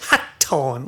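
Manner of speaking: "Hatton." with both T's crisply pronounced; over-pronounced T's. Retold or imitated. Retelling how the host said his name, with hard T's. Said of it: "those were two very overly pronounced T's".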